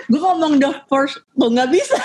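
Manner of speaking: "The First" mumbled with a stiff tongue. Real, not acted. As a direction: struggle to say "The First", laughing. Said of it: "lidahnya jadi kayak kaku".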